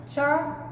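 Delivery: chocolate broken apart, cho, co, let; syllable by syllable. Shown as a demonstration. Teacher breaking down the syllables, chocolate in three separate pieces. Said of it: "tenemos la sílaba".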